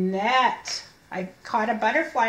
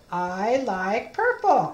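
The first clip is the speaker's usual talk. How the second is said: slow reading; 2 semitones lower, slower than usual. Shown as a demonstration. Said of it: "read the story with me".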